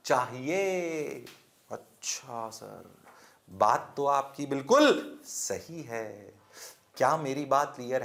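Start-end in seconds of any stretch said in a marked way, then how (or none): 1.7-6.3 a low, much softer voice playing a student; mock student reply. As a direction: answer like a meek pupil in class.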